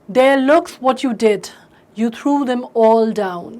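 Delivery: slow, measured recital of a poem; slow classroom poem reading; poem recitation. Shown as a demonstration. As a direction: recite each line slowly and clearly for the class. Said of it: "बोल के पढ़ेंगे या recite करके पढ़ेंगे".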